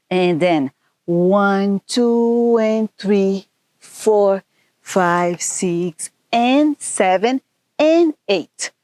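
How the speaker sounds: count-in, slow start, lifting on the last count; dance class count, climbing to the finish; counting dance beats. Shown as a demonstration. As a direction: call the counts in time with the music. Dance teacher counting the beat.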